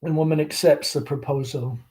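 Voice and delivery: lightly voiced chatty Southern belle mother; Southern mother hostess. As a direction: gush over the guest like a fading belle. Amanda chatting with the caller.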